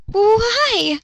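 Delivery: high, shy little why; flustered high-pitched why; bashful girly question. Acted. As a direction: ask it blushing and girly. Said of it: "she asked, blushing".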